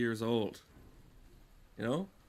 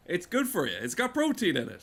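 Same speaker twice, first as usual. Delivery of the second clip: higher, mock-sweet sales voice; a higher, lightly hammed-up advert voice; mocking ad pitch; 6 semitones higher than usual. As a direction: parrot the candy ad's health claim. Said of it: "this is how they get you".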